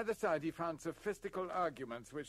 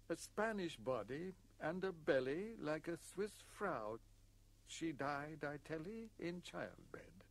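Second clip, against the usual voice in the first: measured verse reading, paused after each phrase; lightly solemn poem delivery; epitaph recitation. A narrator's reading. Widower's epitaph for his wife, solemn recitation.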